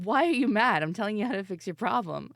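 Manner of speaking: put-on exasperated boyfriend. Boyfriend retold in an argument.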